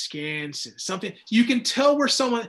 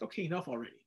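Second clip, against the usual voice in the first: fed up; 3 semitones lower, 12 dB quieter, much faster than usual. Retold or imitated. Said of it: "it's like".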